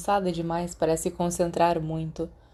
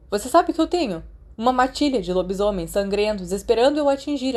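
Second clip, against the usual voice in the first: angry shouting retort; 2 semitones higher than usual. Acted. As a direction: lash out at his friend in anger. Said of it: "Desculpa por ter gritado". (explosão de raiva contra o amigo)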